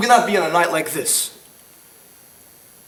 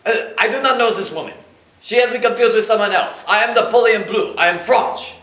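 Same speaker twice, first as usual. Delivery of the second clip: hammed-up fake French accent; bad French accent. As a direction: play a terrible French accent. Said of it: "He has the worst French accent I've ever heard".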